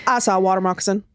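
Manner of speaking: put-on low, drawling little swamp boy, lightly done; a kid playing it cool, badly imitated; poor imitation of boy. Swamp boy reassuring the narrator about the snake, poorly imitated. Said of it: "impression of this boy poorly".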